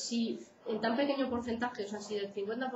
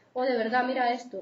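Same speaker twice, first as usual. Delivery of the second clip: louder, sharp outburst over the carrots; angry shout; 2 semitones higher, 5 dB louder than usual. Acted. Stephen suddenly angry at Patrick over carrots, louder shout. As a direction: snap at him, louder, fed up.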